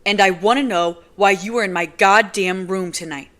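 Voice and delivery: loud, almost screaming; furious near-scream. Acted. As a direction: scream the words at her. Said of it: "practically screaming the words".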